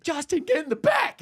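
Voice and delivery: high shouted order; mock shout. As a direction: bark him off the floor. Manager orders him away.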